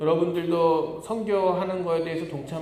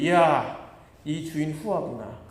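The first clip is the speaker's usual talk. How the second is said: mock excitement. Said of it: "하고 기분이 들떴습니다".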